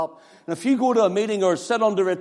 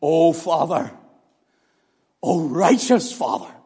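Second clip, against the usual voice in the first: pleading; 2 semitones lower than usual. Shown as a demonstration. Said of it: "Notice the tones of Christ".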